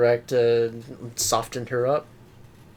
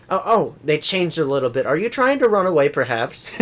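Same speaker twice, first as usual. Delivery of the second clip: taunting; 4 semitones higher, 5 dB louder than usual. Acted. Mock stalker taunting.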